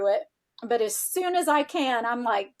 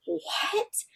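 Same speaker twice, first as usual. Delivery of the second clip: stunned what; 10 semitones higher, 5 dB quieter than usual. Retold or imitated. Retelling her stunned reaction.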